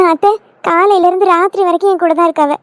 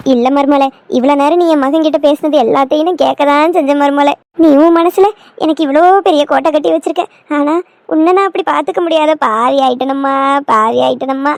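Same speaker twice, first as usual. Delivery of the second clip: acted weepy self-reproach; mother-in-law's mildly tearful confession; tearful remorse; 4 semitones lower than usual. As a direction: lament guiltily, dragging out the cries of regret. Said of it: "ஏன் அழுறிய?".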